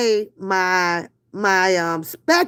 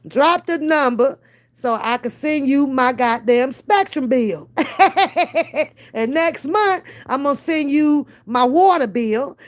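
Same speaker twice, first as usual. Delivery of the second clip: usual speaking voice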